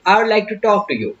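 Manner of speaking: slow polite sentence. Shown as a demonstration. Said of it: "बहुत polite होके बात करनी है".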